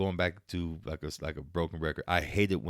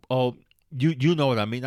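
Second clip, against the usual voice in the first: mock coy client; 5 semitones higher, 6 dB louder than usual. Client dodging, acted high voice.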